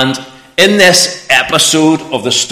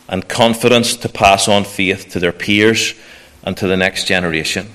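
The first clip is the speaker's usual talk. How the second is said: prayer. Acted. Leads a prayer.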